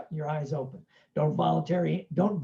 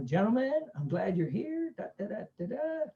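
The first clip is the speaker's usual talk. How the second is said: imitating a sergeant being nice, softly trailing off; mock nice welcome; 5 semitones higher, 4 dB quieter than usual. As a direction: put on a mildly pleasant greeting voice. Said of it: "he starts very nice".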